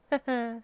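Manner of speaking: high, light character laugh; short high giggle in character; character's chuckle. Acted. Game character laughing at the irony, high giggle.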